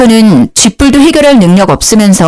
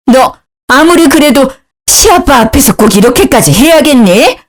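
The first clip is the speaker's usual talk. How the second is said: disapproving mother-in-law; 5 semitones higher than usual. A narrator's reading. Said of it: "못마땅하게 노려봤어요".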